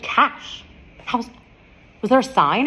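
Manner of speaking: high, loud exasperated question; stunned at cash only, demanding a sign; flustered disbelief. Retold or imitated. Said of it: "You're like".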